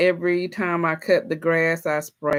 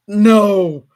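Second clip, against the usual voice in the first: laughing no; 2 semitones higher, 9 dB louder than usual. Real, not acted. Laughing at a snake suggestion.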